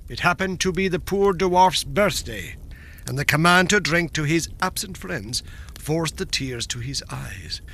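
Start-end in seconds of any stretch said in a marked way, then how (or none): none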